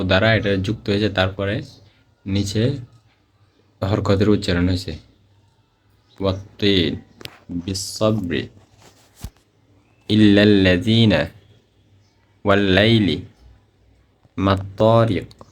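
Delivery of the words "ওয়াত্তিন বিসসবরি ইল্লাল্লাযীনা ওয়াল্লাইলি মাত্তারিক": slow, drawn-out ইল্লাল্লাযীনা with the doubled ল held; tajweed recitation. Shown as a demonstration. Teacher recites tashdid examples for students. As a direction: chant each example slowly. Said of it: "এগুলো তাসদিদের উদাহরণ".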